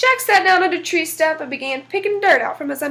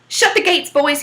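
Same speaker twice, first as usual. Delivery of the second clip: barked order. Acted. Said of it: "he barked".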